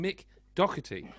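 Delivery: "Doherty" said as the host believes is right; careful surname attempt. Shown as a demonstration. Host introducing a guest by surname, careful pronunciation of "Doherty". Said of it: "I'm gonna say his right name".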